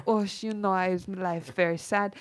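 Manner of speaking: put-on lightly done German accent, flat and deadpan; a hint of a German accent, dry and joyless. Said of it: "German deadpan".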